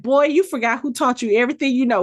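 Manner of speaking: fast, sassy put-down from a mother; quick mock scold; scolding comeback. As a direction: remind the boy who's boss. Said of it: "she was like".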